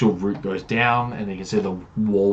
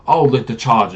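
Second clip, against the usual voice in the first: loud, higher, swaggering brag; boastful paladin; 4 semitones higher, 8 dB louder than usual. Acted. Paladin bragging about his kills to the party, loud and pompous. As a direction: oversell every feat like a showman hero.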